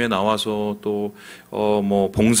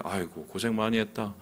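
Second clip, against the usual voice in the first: comforting God voice. Retold or imitated. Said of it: "이런 거 원하잖아요".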